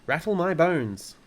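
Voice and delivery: high, loud spooky parrot voice. A narrator's reading. Parrot shows Fred and Matilda its phrase, spooky mimicry. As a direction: parrot doing a ghostly line. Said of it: "giving a wonderful imitation of a spooky voice".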